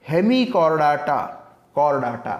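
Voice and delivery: ହେମିକର୍ଡାଟା, କର୍ଡାଟା slowly and clearly; model pronunciation. Shown as a demonstration. Teacher showing students correct pronunciation, slow ହେମିକର୍ଡାଟା, କର୍ଡାଟା. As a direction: stretch out ହେମିକର୍ଡାଟା, କର୍ଡାଟା for learners. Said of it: "correct ପ୍ରନାଉନ୍ସିଏସନ୍ କର".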